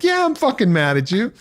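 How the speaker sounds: high, hammed-up angry retort; mock angry admission. Retelling a fight with his partner, mock angry. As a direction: play the barely hidden anger for laughs. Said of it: "my whole energy was like".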